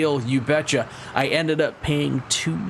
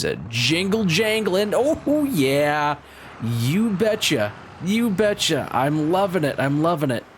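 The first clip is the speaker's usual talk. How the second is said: squeaky high, gleeful you betcha; giddy excitement; 5 semitones higher than usual. Real, not acted. Gleeful over new keys.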